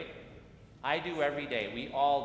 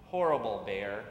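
cross outburst; 3 semitones lower, 5 dB louder than usual. Acted. Girl stomping, repeating insult.

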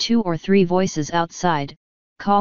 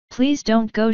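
quick plea; 4 semitones higher than usual. Acted. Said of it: "she began quickly".

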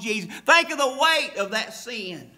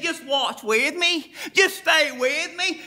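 pleading with his disciples; 5 semitones higher, 3 dB louder than usual. Retold or imitated. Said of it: "He said".

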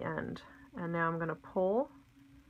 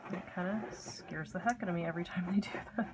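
hushed aside; 6 dB quieter, faster than usual. Real, not acted. Aside about kids printing below.

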